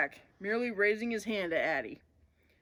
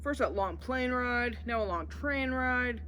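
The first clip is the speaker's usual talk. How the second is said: tired whine; 4 semitones higher, slower than usual. Acted. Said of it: "Bodhi groaned".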